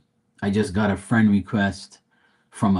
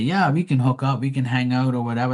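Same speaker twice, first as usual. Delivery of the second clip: lightly voiced girl, pitched higher; quick, higher mock girl's voice; girl's reply, imitated; 3 semitones higher than usual. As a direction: quote her breezily, a touch higher.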